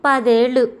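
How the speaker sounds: పదేళ్ళు pressed firm again; weight every syllable of పదేళ్ళు; stressing ten years. A narrator's reading. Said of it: "పదేళ్ళు అన్న మాటల్ని వత్తి పలుకుతూ". (పదేళ్ళు అని వత్తి పలకడం)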